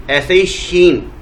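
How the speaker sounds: usual speaking voice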